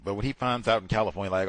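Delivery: ordinary delivery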